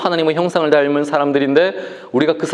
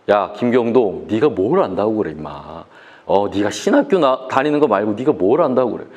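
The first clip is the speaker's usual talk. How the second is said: put-on lower, dismissive scolding of a young pastor; condescending older youth; 8 semitones lower than usual. Older youths belittle the young pastor, lower mock scolding. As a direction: talk down to him like a know-it-all elder. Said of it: "느낌은 약간 이런 거 있지".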